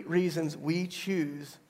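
slow, deliberate weight on "choose"; measured line with "choose" held long; stress on choose. Shown as a demonstration. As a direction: stretch out "choose" to make it count. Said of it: "I'm emphasizing the word choose".

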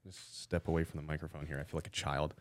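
speaking away from the microphone; far from mic. Real, not acted.

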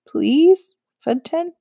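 high, loud begging "please"; pleading. Acted. Boy begging the witch to let them cross. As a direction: beg her with wide eyes.

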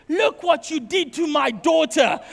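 mock outraged mother scolding her son; accusing. Mother accuses son over the tattoo.

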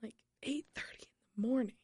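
whispered disbelief, fast; exasperated whisper. Retold or imitated. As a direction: breathe it out in disbelief. Exasperated reaction to driver.

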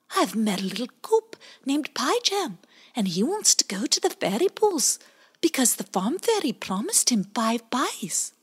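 high little otter voice; baby otter Bowie. Acted. Bowie tells the blackbird about Pie Jam, high otter voice. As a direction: explain earnestly.

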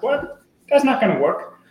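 sudden high incredulous "What?"; imitating a startled kid who can't believe it; surprised disbelief. Child retold, shocked at advice.

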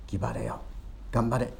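soft Kagoshima ギバレよ then 頑張れ, a hushed fatherly urging; 父のささやくような励まし; father's encouragement. Acted. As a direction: gently urge a dying son on. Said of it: "という お父さんは".

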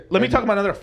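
laughing through the words; words breaking into laughter. Real, not acted. Wait, let me collect myself.

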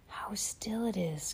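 hushed unvoiced whisper. A narrator's reading. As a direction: breathe it in a whisper. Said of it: "Carrie whispered".

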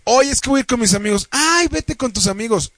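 mock couple exchange. Guy mimicking a typical couple's talk about friends, lightly mocking. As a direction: play both sides of a familiar couple spat. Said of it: "O el típico de".

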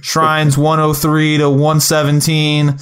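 lightly voiced gamer YouTuber intro; a hint of a let's-play host. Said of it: "going to YouTube and being like".

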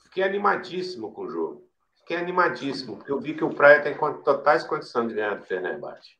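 stuffed-up sinus voice; blocked nose. Real, not acted. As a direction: talk through a blocked nose. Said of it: "eu tô com a sinusite".

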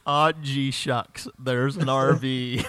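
lightly imitated mock American accent; udawany akcent amerykański. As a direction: echo a hammed-up American accent, drawing out the end. Echoes guest's mock American accent.

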